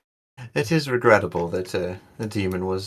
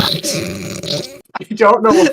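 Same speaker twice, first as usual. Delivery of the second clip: put-on very slow, high French Canadian accent; 13 semitones higher, 8 dB louder, much slower than usual. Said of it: "triggering your internal Canadian".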